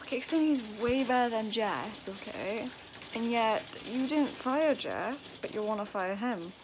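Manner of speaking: loud, heated complaint, slowing right down on you didn't fire Jess; venting real anger at the unfair boss; angry rant. Real, not acted. Complaining about the boss wanting to fire Yastin, loud and angry. Ranting at boss over firing.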